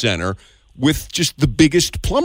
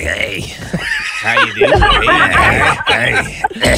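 very high, slow, shouted drawl; hammed-up sausage greeting; smoky voice; much slower than usual. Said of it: "a smoky would be more like".

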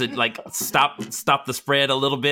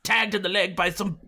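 higher-pitched, put-upon protest; aggrieved adventurer; 8 semitones higher than usual. Acted. Accused character defends themself to a companion, aggrieved. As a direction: plead innocence in a raised character voice.

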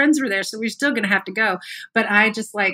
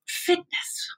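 Fitness. whispered with no voice, high and soft; 8 semitones higher, 7 dB quieter than usual. Acted. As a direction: breathe Fitness. as a mock secret. Whispered mocking repeat of fitness.

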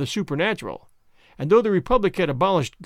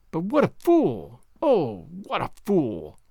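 laughing; slower than usual. Acted. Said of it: "Bibeau was laughing so much".

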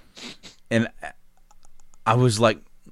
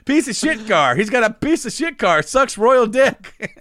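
laughing reading; 6 semitones higher than usual. Retold or imitated. Teller laughs retelling dad reading lyrics. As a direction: crack up mid-recital. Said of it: "he's angrily reading".

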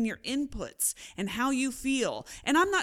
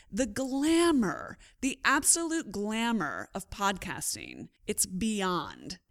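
dry sarcasm; slower than usual. Real, not acted. Joking about towel over head.

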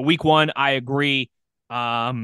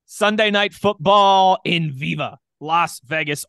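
announcer voice; 3 semitones higher, 4 dB louder, slower than usual. Pretend. Announces the game like broadcaster.

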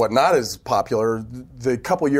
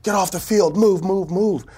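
imitated yell; 9 semitones higher than usual. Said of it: "he's yelling at everybody".

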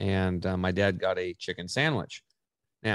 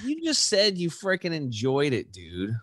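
mock retort; 8 semitones higher than usual. Retort to angry dad.

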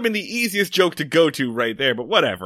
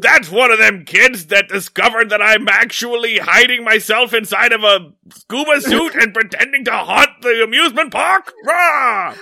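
put-on old prospector; 5 semitones higher, 5 dB louder than usual. Scooby-Doo villain parody as Foster.

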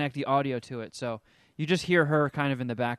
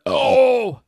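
surprised oh; 8 semitones higher, 10 dB louder than usual. Real, not acted. Sudden exclamation mid-explanation.

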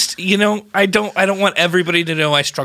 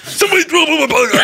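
high, fast black-metal screech; black metal singer; 8 semitones higher, faster than usual. Acted. Student attempts accented complaint, comes out high black-metal screech. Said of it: "like a black metal lead singer".

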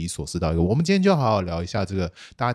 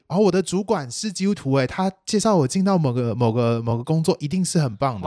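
naive excited gushing; 5 semitones higher than usual. Retold or imitated. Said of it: "所以".

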